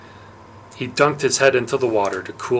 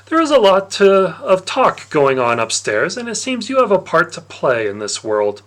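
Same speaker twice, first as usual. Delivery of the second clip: sly Dionysus; 4 semitones higher, 4 dB louder than usual. Acted. Dionysus taunting the boy who drank his wine, smug and loud. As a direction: savour the gotcha like a smug god.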